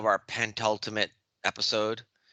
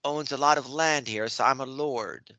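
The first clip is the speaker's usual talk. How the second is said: bad English accent; 3 semitones higher than usual. Podcast host shows off his English accent to his friends, in a hammed-up English accent. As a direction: play a fake English lord in a put-on English accent. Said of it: "that was more of a Game of Thrones accent".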